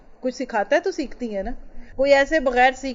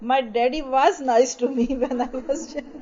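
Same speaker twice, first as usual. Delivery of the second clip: put-on slow child quote; much slower than usual. Voicing twelve-year-old child.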